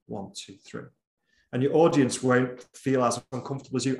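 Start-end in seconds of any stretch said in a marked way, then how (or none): 0.1-0.9 soft silent-count demo, evenly spaced; counting under the breath. Shown as a demonstration. Speaker showing audience how to hold a pause, counting under the breath. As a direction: count quietly, as if in your head. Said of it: "force yourself to count in your head".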